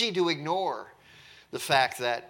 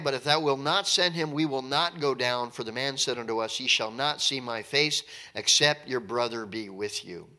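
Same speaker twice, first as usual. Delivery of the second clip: raised, formal reading of the verse; scripture reading. Acted. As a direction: read the verse out with weight.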